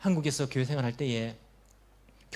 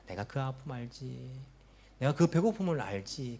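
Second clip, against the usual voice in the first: gentle comfort; 2 semitones lower, 4 dB quieter than usual. Acted. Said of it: "주님께서 말씀하십니다".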